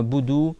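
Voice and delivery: BOUDOU on its own, detached from "na"; resume mid-word with just boudou; split word. Shown as a demonstration. Teacher shows the wrong restart, word fragment alone. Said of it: "après plus loin".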